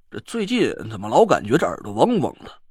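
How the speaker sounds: lightly voiced grumbling old man; muttering old man. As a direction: grumble about getting old. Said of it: "他嘟囔了几句". (老头嘀咕自语)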